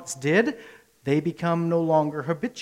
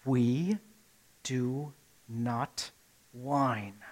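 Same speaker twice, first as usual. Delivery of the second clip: parent's stern rule; 5 semitones lower, 8 dB quieter, much slower than usual. Retold or imitated. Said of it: "what I tell my children constantly".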